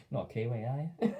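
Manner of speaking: put-on Aussie accent. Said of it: "No, no, that's more Aussie".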